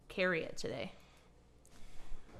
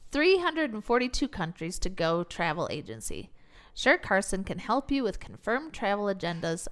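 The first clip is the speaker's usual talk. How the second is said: infomercial voice. Pretend. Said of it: "that's my infomercial voice".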